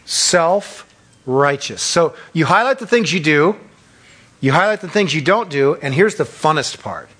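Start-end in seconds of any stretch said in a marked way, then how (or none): 0.0-1.8 Self-righteous repeated, slow and falling; Self-righteous said slowly again with a falling end; drawn out slowly. Shown as a demonstration. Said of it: "You call that what?".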